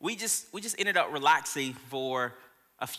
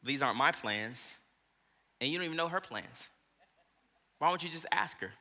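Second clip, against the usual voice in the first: gentle voice of God; 3 semitones lower, 6 dB quieter than usual. Retold or imitated. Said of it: "God was just like".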